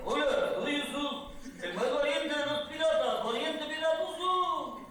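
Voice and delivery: put-on high, drawn-out pirate with an Arabic accent; slow, singsong mock Arabic accent, high-pitched. Actor auditioning for the director as cowardly pirate, Arabic accent. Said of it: "le ponga un poco acento árabe".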